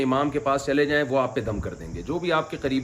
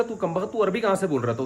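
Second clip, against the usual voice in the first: much higher, incredulous scolding; mock astonished scolding; 7 semitones higher than usual. People ask the faker where his Arabic came from, incredulous and high. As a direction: throw it at him in disbelief. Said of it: "لوگوں نے پوچھا".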